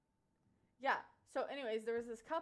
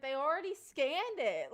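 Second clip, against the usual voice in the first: laughing retold quote; 6 semitones higher, 9 dB louder than usual. Wife quoted at checkout.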